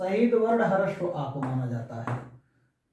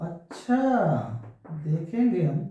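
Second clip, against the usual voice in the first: noncommittal refusal. Shown as a demonstration. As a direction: stretch "अच्छा" upward as a doubtful brush-off. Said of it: "नकारात्मक, अस्वीकृति".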